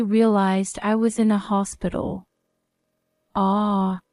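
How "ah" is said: pained groan. Acted. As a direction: groan through the pain. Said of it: "A groan escaped my lips".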